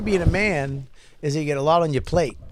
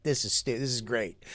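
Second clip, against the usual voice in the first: imagined relief; 6 semitones lower, 9 dB quieter than usual. Retold or imitated. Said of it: "you're gonna be like".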